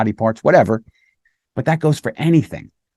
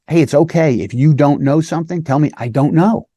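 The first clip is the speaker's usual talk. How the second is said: higher, gentle reassurance; reassuring child; 4 semitones higher than usual. Shown as a demonstration. Officer reassuring a nervous child, gently higher. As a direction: soothe the child, it's okay not to know. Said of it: "So by telling them".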